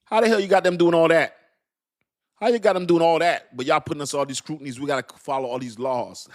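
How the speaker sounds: high, loud incredulous protest; loud mocking indignation; mock outrage. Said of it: "they're like".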